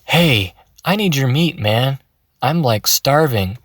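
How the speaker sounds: mock laid-back monster asking for meat; casual ghoul. Shown as a demonstration. Coach shows a ghoul asking casually for meat. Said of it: "picture a ghoul coming up to you and saying".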